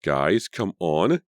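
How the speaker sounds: slow, drawn-out plea; pleading. Acted. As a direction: beg them slowly to stop. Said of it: "Carrie pleaded".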